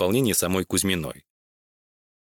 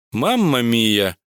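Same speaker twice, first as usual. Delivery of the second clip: slow exclaimed Мамма мия with stretched vowels; exclaiming; much slower than usual. Acted. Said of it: "восклицал Баладис".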